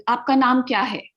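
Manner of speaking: "आपका नाम क्या है" asked with the voice lifted; question intonation. Shown as a demonstration. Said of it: "my voice is going upwards".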